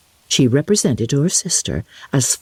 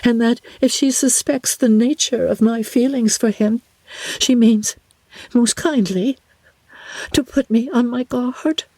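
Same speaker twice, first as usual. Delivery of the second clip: lightly voiced young woman, a touch higher; a gentle, hesitant sister confiding; Jane's voice; 8 semitones higher than usual. Jane confiding her doubts to her sister, lightly voiced.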